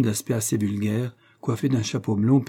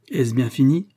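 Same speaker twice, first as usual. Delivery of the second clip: mocking; 3 semitones higher, 4 dB louder than usual. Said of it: "railla-t-il".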